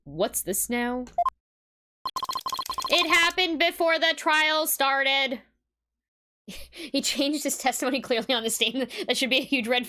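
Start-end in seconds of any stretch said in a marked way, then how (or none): 2.9-5.4 slow stiff robot voice. Acted. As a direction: read it like a robot. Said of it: "It is tough to talk like a robot".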